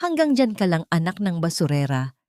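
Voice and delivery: a light sneering smirk in the voice; mildly mocking, smug sneer; smirking taunt. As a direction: taunt her with a grin, lightly. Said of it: "nakangisi niyang sabi".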